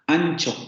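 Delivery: ancho said slowly and clearly, nasal before ch; careful example word. Shown as a demonstration. Teacher modelling ancho for students. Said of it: "En una palabra como ancho".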